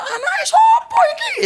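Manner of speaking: high, loud yell broken by laughter; the soaked stranger shrieking whose kid this is, laughing; laughing shout. Retold or imitated. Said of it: "dan orangnya teriak".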